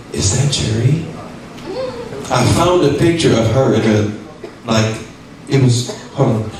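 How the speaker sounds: spooky storytelling voice; ghost voice. Pretend. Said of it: "turn on my ghost voice".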